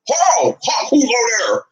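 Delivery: high-pitched playful holler; mock hailing call. Mock calling out to burly man.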